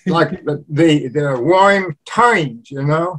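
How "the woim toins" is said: slow New Orleans "woim toins"; New Orleans Yat accent. Shown as a demonstration. Showing how New Orleans locals talk, slow Yat accent. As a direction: drag out the Brooklyn-like New Orleans vowels. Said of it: "just like in Brooklyn".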